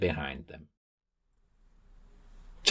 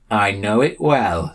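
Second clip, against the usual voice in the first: ominous; 3 semitones higher, slower than usual. Acted. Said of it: "said Sam ominously".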